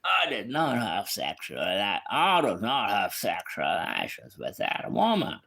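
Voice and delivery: lightly voiced Clinton, deliberate; a lightly done Bill Clinton; Bill Clinton impression. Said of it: "I try it again".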